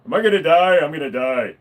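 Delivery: lightly voiced excited youtuber intro, rising to mock panic; a hint of a hyped YouTuber panicking; early Markiplier impression. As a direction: imitate an early Markiplier video opener. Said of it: "his voice isn't as deep as it is".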